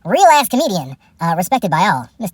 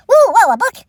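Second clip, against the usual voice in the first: mock amazement; 12 semitones higher, 4 dB louder than usual.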